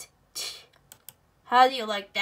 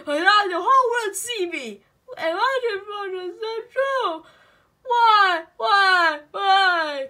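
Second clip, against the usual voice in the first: whiny half-sobbing why; mock crying; 4 semitones higher, slower than usual. Crying at the computer that keeps turning off. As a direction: wail it like a hammed-up breakdown.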